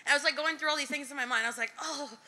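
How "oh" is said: high, laughing mock cheer; mock delight. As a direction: act out a giggly yay. Acts out her own delighted reaction.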